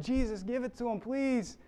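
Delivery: high, eager plea; acted-out urging; pleading. Crowd begging Jesus to retaliate.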